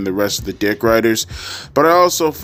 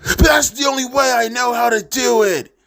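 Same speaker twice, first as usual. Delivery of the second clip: mock rousing shout; 12 semitones higher than usual. Quoting Moxley's rousing climax.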